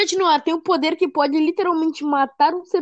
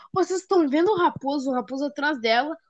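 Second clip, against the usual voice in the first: imitating Dora; 3 dB quieter, faster than usual. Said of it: "a Dora fala assim".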